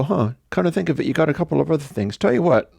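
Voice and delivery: casual bargaining. Retold or imitated. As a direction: toss off a friendly deal. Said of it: "I follow up and go".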